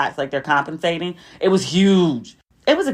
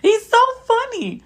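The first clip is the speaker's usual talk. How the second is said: laughing. Real, not acted. Still laughing about Denzel.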